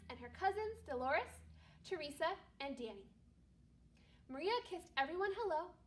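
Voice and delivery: calm read-aloud storytelling voice; story narration. Acted. Teacher reading a Christmas story aloud to her class, calm narration. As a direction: read it gently to a second-grade class.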